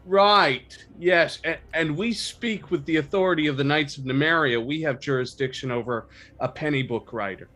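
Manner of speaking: shaky bluff. Acted. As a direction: bluster through the lie with false authority. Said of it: "Belle looks a little shaky with the lie".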